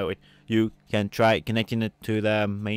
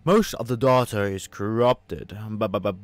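mock malfunctioning computer repeating itself; stuttering computer voice; 2 semitones lower, 5 dB louder than usual. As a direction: play a glitching AI. Voicing the glitchy computer.

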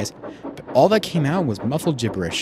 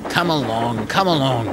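snarling. A narrator's reading. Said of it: "snarled Alan".

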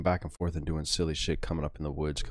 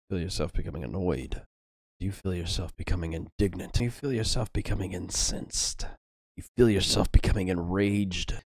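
from annoyed to enraged, louder; building anger; 4 dB louder than usual. Acted. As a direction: let the outrage build line by line.

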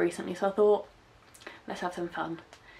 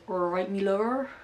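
put-on West Country accent; 4 dB louder, slower than usual. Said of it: "I can't do a very good accent".

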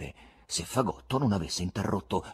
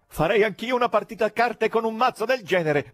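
cheerful; 11 semitones higher, 3 dB louder than usual. A narrator's reading. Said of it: "propose con allegria un grassone".

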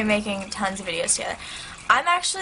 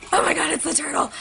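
excited discovery; 7 semitones higher, faster than usual. Retold or imitated. Spotting the rare turtle.

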